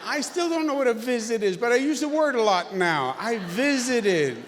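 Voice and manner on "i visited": "I visited" drawn out slowly in a southern drawl. Shown as a demonstration. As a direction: stretch "visited" like an Arkansas drawl. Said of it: "I do it with a little southern drawl".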